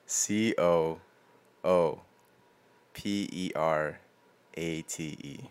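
slow letter by letter, trailing off; spelling it out. Shown as a demonstration. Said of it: "This one I can do".

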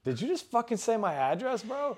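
high, disbelieving question; retold shock at hearing his address; incredulous. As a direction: sound caught off guard. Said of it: "And, and I'm like".

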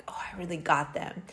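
breathy whispered gloat; whispered quote. Retold or imitated. Retelling a comeback she never got, whispered. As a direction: hush it like a secret little victory.

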